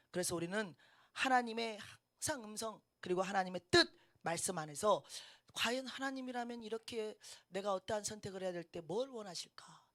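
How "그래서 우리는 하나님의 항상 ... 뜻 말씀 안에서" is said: usual speaking voice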